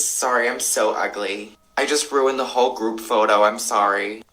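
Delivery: whiny self-pity. Retold or imitated. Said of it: "constantly say things like".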